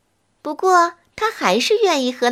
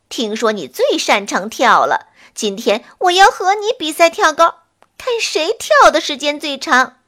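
excited witch; 4 semitones higher, 4 dB louder than usual. Acted. Witch challenges the flea eagerly.

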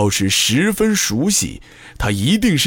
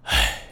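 long soft tired sigh; weary sigh; 6 dB quieter than usual. Acted. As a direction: sigh it out quietly. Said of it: "那黑影却突然叹息了一声". (轻声叹气)

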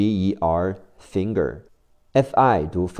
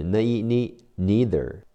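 American accent. Shown as a demonstration. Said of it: "美式发音是".

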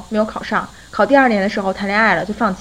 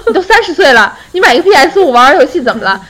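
laughing retort; 3 semitones higher, 5 dB louder than usual. Retold or imitated. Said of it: "然后我们就说".

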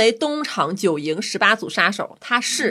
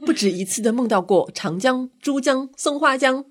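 sissy character voice; 4 semitones higher than usual. Acted. Quiz host imitates an effeminate character's dreamy line, lightly sissy voice. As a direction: draw out the river names, lightly effeminate. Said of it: "我只记得它是个娘娘腔".

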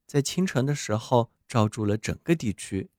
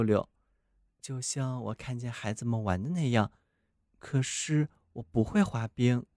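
soft snowman voice; 3 dB quieter than usual. Acted. Snowman muses softly in the story.

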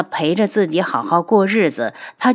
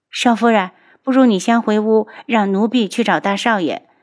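anxious maid; 3 semitones higher than usual. Acted. Maid voiced, pleading with mistress.

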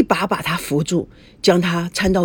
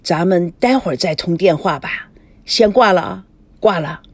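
forced calm. Acted. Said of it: "还是尽量以平静的声音说".

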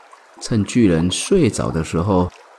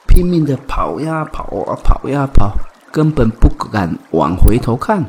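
frantic running narration; 3 semitones higher, 6 dB louder than usual. A narrator's reading. Koala fleeing in fright.

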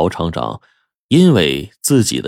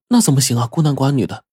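higher, flustered and flattered; flattered surprise; 5 semitones higher, faster than usual. Acted. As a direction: protest shyly, caught off guard. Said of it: "朱美红受宠若惊". (受宠若惊，声音抬高)

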